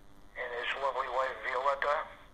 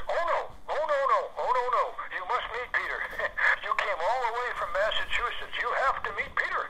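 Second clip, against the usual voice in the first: insistent Irish lady; 8 semitones higher than usual. Retold or imitated. Housemaster insisting, voiced.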